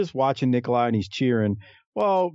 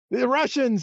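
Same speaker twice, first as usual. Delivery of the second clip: Bill Watts impression; 10 semitones higher than usual. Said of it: "He's like".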